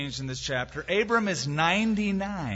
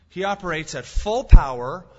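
much louder burst on full power; preaching emphasis; 2 semitones higher, 10 dB louder than usual. Real, not acted. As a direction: proclaim it with full force. Preacher builds to climax.

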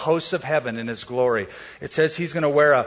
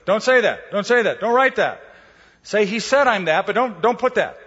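pleading leaders; 6 semitones higher than usual. Retold or imitated. Leaders pleading with Pilate repeatedly.

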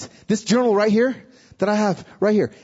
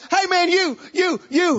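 redneck calling out; 8 semitones higher than usual. Retold or imitated. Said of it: "most redneck Tennessee man you've ever seen".

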